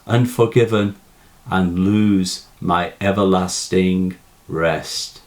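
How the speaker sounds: reading verse aloud, line by line; a lightly performed poem reading; poem recitation. Acted. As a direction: recite the poem with pauses between lines. Recites the poem before analysis.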